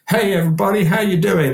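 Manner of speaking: hammed-up singer hyping a flat room; mock frontman greeting. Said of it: "walk into a place and go".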